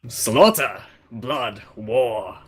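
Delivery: lightly voiced Russian warrior, proud; a hint of a Russian accent, haughty hunter; mild Russian accent, disdainful Draken. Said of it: "I'll just do a Russian accent".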